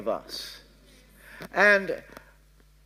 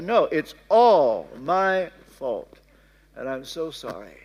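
insistent tender apology; 5 semitones lower than usual. Retold or imitated. Insists to wife, slowly.

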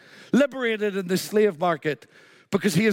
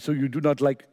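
lightly attempted French accent; tentative French accent, soon abandoned; 6 semitones lower than usual. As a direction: put on a mild French artist's accent. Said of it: "I'll not do the French accent".

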